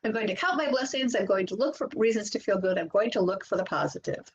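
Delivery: high, bright chant of promises; cheerful affirmations. Shown as a demonstration. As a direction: sing out each affirmation for the group to repeat. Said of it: "repeat after me".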